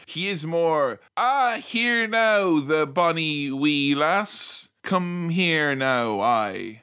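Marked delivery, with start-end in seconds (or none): 1.2-6.8 slow hammed-up Scottish brogue; mock Scottish accent. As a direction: drawl it like a fake Scotsman. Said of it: "My voice has changed".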